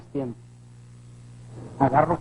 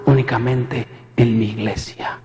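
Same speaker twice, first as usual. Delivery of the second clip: voz divina lenta; 4 semitones lower than usual. Retold or imitated. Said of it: "me grita".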